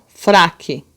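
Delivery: FRAQUE slowed into fra-que; separated syllables. Shown as a demonstration. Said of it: "também falamos separados, ó".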